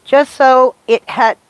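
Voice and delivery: muffled behind a mask; talking through a mask; through a face mask. Real, not acted. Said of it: "it's gonna be a little muffled".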